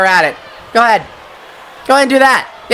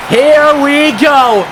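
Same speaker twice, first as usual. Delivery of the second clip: hyped shout; 7 semitones higher, much slower than usual. Real, not acted. Finisher coming.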